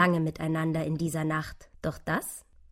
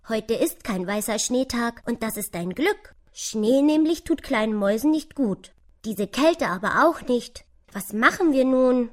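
lively, higher squirrel voice, gently scolding; besorgtes Eichhörnchen; 6 semitones higher, 6 dB louder than usual. Acted. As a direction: question the little mouse with energy. (lebhaftes, besorgtes Eichhörnchen)

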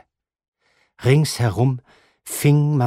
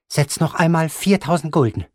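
higher, firm betting order; stubborn grandmother; 6 semitones higher than usual. Acted. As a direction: order the bet without blinking. Grandmother voiced in the story.

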